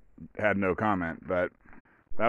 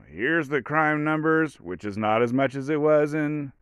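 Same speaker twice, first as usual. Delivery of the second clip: mocking boilerplate; 6 semitones higher than usual. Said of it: "that was like".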